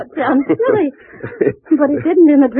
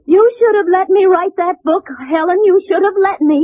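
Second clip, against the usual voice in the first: raised-pitch imitation of a husband's outcry; retold crying out; 6 semitones higher than usual. Wife retelling husband's cries in her dream, higher outcry. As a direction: cry it out in mild reproach. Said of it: "you kept crying out".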